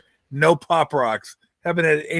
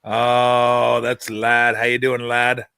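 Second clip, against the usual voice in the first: light sportscaster impression, lower; Brent Musburger; 4 semitones lower, much slower than usual. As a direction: greet Ladd like an old broadcaster. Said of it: "That's Brent Musburger".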